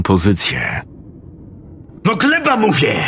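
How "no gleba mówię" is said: high screamed command; screaming. Acted. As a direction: yell it with full force. Sergeant repeats order.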